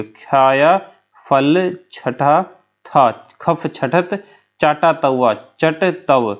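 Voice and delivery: खाया फल छठा था broken into slow separate chunks; slow syllable by syllable. Shown as a demonstration. Teacher to students breaking down the mnemonic slowly. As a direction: pull the mnemonic apart slowly, word by word. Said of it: "खा या से जो है खे ले लोगे".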